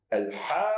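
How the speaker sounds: Al-Haqqa with a long drawn first vowel; drawn-out recitation. Shown as a demonstration. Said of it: "sehr stark und sehr tief ausgesprochen".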